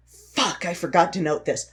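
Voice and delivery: understated retold curse; mild frustrated self-talk. Sick script writer noticing a missed note, mildly frustrated. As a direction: curse at yourself lightly.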